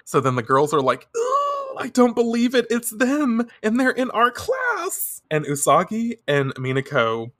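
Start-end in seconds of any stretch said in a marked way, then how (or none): 1.2-5.2 high-pitched mock swooning; fangirl squeal. Schoolgirls see the idols in their class, squealing excitedly.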